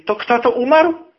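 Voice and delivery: high, loud rising question; acted-out officer demanding an answer; commander's pointed question. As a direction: put him on the spot, voice climbing at the end.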